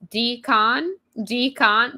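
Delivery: "Decon" said as DEE-kahn over the intercom; announcer mispronouncing name. Retold or imitated. Gate announcer paging her, calling "Decon" as DEE-kahn. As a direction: call out "Decon" the way the gate agent mangled it. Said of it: "This is how this man pronounced my last name".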